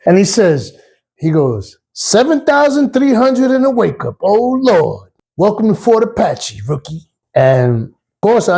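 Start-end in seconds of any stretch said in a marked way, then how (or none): 1.9-7.0 high, sing-song teasing welcome; mock-pitying Ricky. Ricky teasing the new rookie with a mock blessing, high. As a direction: pity the rookie with a wink.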